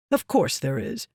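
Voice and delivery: lightly brushing the worry aside; dismissive. Acted. Meridas to Yasna, shrugging off her fear, lightly dismissive. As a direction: wave her doubt away with mild disdain. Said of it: "Meridas said dismissively".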